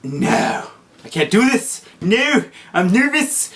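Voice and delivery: high-pitched nervous panic, slowing on the last words; retold freak-out. To mom, dreading the driving test, a high nervous freak-out. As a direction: squeak it out like you're about to lose it. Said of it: "And I started freaking out".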